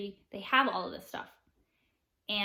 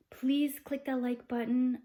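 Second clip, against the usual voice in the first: slow, lightly put-on princess request; positivity princess; slower than usual. Princess asking viewers for likes, lightly put-on princess voice. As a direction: ask slowly, as a composed princess. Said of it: "I'm the positivity princess".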